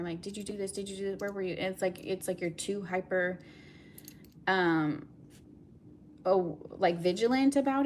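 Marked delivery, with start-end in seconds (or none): 0.2-1.6 quick, hushed imitation of jealous questioning; suspicious partner. Jealous person keeps asking their partner, mildly suspicious. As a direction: rattle it off softly, mock suspicious. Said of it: "overly jealous or suspicious".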